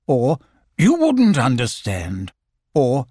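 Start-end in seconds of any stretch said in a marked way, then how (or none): 0.8-2.3 slow, lofty; mysterious Owl. Acted. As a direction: say it like a superior owl. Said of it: "he would look mysterious and say".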